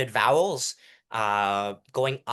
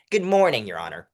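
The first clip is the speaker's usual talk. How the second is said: going down; 3 semitones lower, 6 dB louder than usual. Shown as a demonstration. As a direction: land each phrase low and sure. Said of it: "When you go down".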